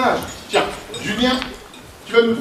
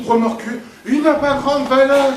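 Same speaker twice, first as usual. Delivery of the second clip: a touch of posh bourgeois voice; lightly voiced fussy aristocrat; posh French drawl; 3 semitones higher than usual. Shown as a demonstration. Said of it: "je vais te montrer".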